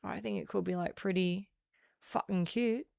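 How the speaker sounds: a hint of a broad Australian accent, mouth open wide; broad Aussie talk. Shown as a demonstration. Showing chat how she could stream in Australian accent. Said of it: "talking a bit like this".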